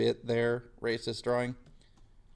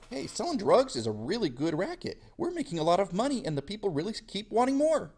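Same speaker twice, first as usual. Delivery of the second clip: mock greedy British boast, pitched higher; 9 semitones higher than usual. Teacher voicing British gloating about drug profits, high mock boast. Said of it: "they're like".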